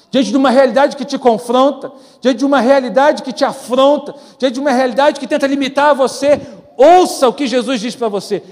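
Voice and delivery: loud, rising preacher's cadence; preaching at full force. Acted. Preacher urges the congregation facing hard realities, loud and fervent. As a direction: drive each repeated line harder.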